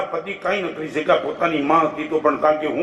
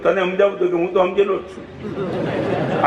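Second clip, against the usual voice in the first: wry retort. Retold or imitated. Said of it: "મેં કીધું".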